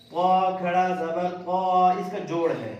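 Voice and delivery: slow sing-song drill chant; qaida recitation. Shown as a demonstration. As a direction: draw out each syllable for the class.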